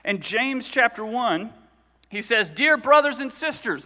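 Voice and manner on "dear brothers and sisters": scripture reading. Acted. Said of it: "I'm gonna read it to you".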